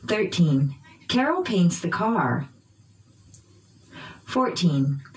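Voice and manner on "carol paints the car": "Carol" and "car" stressed by pitch; noun stress. Shown as a demonstration. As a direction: drill model, peaks on "Carol" and "car". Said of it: "using pitch change".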